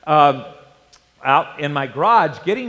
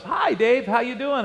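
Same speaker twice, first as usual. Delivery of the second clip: lightly voiced neighbour, pitched higher; a higher, casual hello in a retold voice; friendly neighbour; 6 semitones higher than usual. Neighbour pulls up and greets Dave, lightly voiced friendly greeting.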